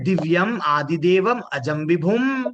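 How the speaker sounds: slow, drawn-out Sanskrit verse recitation; श्लोक पाठ. Acted. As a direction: recite the shloka slowly, stretching the long syllables. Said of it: "क्या बोल रहे हैं?". (धीमा, खींचकर श्लोक पाठ)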